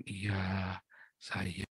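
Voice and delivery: very soft, low murmur; mock soft-spoken. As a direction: imitate a falsely meek person, barely audible. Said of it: "ngomongnya pelan-pelan". (menirukan orang bicara pelan-pelan)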